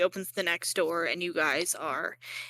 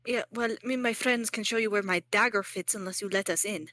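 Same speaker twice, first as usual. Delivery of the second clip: put-on French accent. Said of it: "that's the wrong accent".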